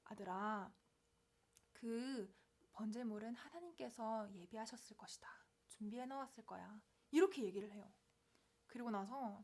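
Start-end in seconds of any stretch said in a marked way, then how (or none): 0.1-6.8 soft, hesitant father's reply; evasive answer. Acted. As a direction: answer quietly, pausing before committing. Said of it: "애매하게 대답을 해요". (조용히 얼버무리듯)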